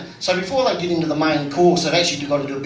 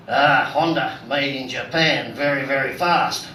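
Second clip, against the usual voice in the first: mock Japanese passenger; 4 semitones lower than usual. Taxi driver mimicking his Japanese passenger, a light low mock voice. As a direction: drop the voice and plod through it like the passenger.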